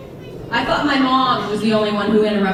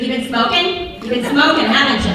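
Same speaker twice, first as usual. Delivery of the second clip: accusing mom. Retold or imitated. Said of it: "She talks like this as well".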